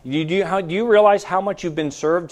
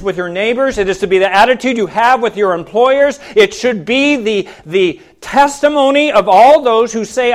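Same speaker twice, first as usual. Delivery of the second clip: building list, driven home with raised voice; emphatic preaching; 4 semitones higher, 5 dB louder than usual. Real, not acted. Preacher urging congregation to live as servants, emphatic preaching. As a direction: preach it with rising force to a firm finish.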